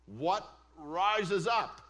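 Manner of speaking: slow, loud rising question; slowed rhetorical punch; building emphasis. Shown as a demonstration. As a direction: drag it out for effect. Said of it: "rhetorical build in sermon".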